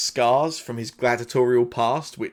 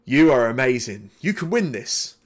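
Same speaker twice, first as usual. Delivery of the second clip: Yin Yasmera encouraging; 4 dB louder than usual. Acted. Soaked contestant slapping the player on the back, excited encouragement. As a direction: hype up a friend, lightly in character. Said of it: "and she goes".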